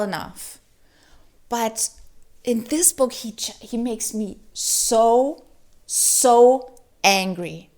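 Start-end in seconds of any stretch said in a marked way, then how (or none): 3.1-7.7 so angry. Real, not acted. Reviewer fuming about the book's hero, slow angry stress. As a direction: drag out so angry, slow and louder. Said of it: "he makes me so angry".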